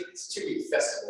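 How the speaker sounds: said through a light laugh. Real, not acted. Laughs while explaining festival.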